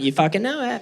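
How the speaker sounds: softly put-on camp voice; lightly camped-up reply; flamboyant gay guy. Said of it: "very flamboyant gay guy".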